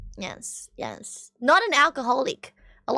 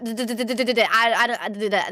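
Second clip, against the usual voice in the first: stuttering imitation; faster than usual. Shown as a demonstration. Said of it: "that's how it sounds like".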